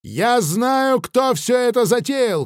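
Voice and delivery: high, loud accusing shout. Acted. Nikita shouts his accusation at the thinker. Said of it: "крикнул я".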